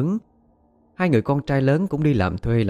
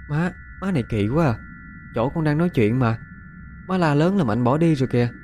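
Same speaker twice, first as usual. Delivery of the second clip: whiny daughter; 5 semitones higher than usual. Acted. Daughter protests to mother.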